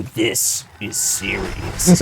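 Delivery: low, slow mock-serious voice; deadpan a grim hero line, slowly; lightly hammed mock gravity; mock grave voice. Mocking grim movie line.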